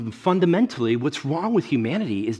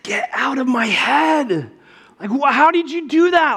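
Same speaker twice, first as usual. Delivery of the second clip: high, hushed-then-loud astonishment; mock freak-out; 11 semitones higher, 4 dB louder than usual. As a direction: act utterly spooked by the coincidence. Retells stunned reaction to wife.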